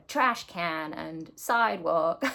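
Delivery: slow, deliberately bad American accent; drawn-out mock American accent, half joking. Stitcher trying out Americanisms in a bad American accent. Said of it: "That's, that's the worst American accent".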